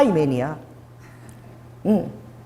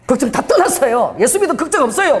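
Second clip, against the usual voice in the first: bright assurance; 5 semitones higher than usual. Retold or imitated. Evangelist assures the man.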